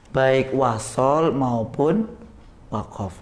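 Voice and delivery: slow and deliberate, each word spaced; slow teaching emphasis. Shown as a demonstration. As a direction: lay the rule out word by word. (pelan dan tegas seperti guru)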